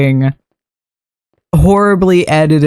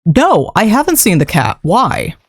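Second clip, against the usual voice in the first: deadpan caption voice; 4 semitones higher than usual. Retold or imitated. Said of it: "the caption".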